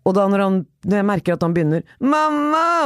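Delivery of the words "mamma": put-on higher whining child calling Mamma; mock toddler wail for Mamma; whiny child call. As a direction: imitate a fussy toddler crying out. Toddler whining at wet shoe.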